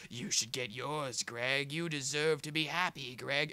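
a lightly slowed, soothing spooky puppet coaxing; a hint of a sinister puppet egging him on. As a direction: coax him sweetly like a creepy puppet. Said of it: "the crazy puppet with, like, the spooky voice".

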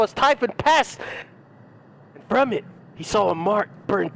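rolling, theatrical pulpit cadence; solemn mock-sermon delivery; preacher-style scripture reading. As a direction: intone it like dark scripture. Reads the book in preacher voice.

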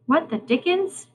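high, startled character voice; startled exclamation. Acted.

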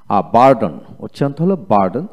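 বার্ডেন with a clear American r; American r pronunciation. Shown as a demonstration. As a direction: say বার্ডেন with the r sounded, American style. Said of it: "আমেরিকানে আর উচ্চারিত হয়". (বার্ডেন American উচ্চারণে, র স্পষ্ট)

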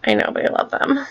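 a breathy whispered aside. Real, not acted. Girl confiding to viewers, whispered aside. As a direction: hush it like a secret.

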